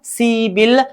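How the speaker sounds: "सिबिल" as a long see, then bil; correct pronunciation. Shown as a demonstration. Teacher models the changed sound for students, "सिबिल" pronounced with b. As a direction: say "सिबिल" with b in place of p. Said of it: "ग्यारह को बोलेंगे".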